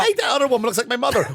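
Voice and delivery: husband gamer yells at the screen, hammed-up excitement; excited mock shout. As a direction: blurt it out, all fired up. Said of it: "acted game quote".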